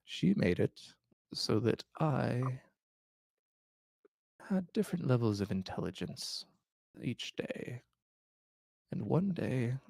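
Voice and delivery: lightly voiced frail old man; weary old king confessing. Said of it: "he goes through his explanation".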